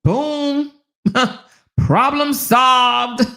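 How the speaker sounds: high, slow laughing problem solved. Real, not acted. Wrapping up the massage story, laughing high.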